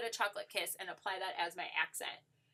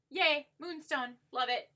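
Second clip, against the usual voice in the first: cheerful yay; 6 semitones higher, 4 dB louder than usual. Real, not acted. Cheering her highlighter shade.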